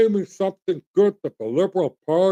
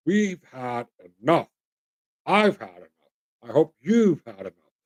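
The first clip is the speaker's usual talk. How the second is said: firm message to officials; 4 semitones lower than usual. Pretend. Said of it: "telling our elected officials".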